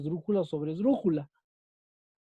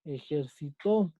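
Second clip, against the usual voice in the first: "Ejercitó" said slowly as ejer-SI-to; stress on SI; 4 semitones lower, 4 dB quieter, slower than usual. Shown as a demonstration. Teacher showing the tonic syllable, "Ejercitó" stressed on si. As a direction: stretch "Ejercitó" by syllables, weight on si. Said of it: "Su sílaba tónica es sí".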